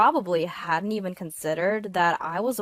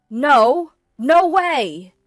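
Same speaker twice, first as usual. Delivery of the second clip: loud, high cry of dread; horrified husband's outcry; alarmed; 7 semitones higher, 12 dB louder, much slower than usual. A narrator's reading. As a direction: blurt it out in alarm. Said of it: "My husband's alarmed voice".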